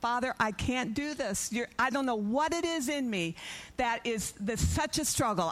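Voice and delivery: high, tearful voice, sobbing and crying out. Someone retelling how they cried out to the Lord, reenacting a sobbing prayer. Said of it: "And I'm sobbing. I'm crying out to the Lord".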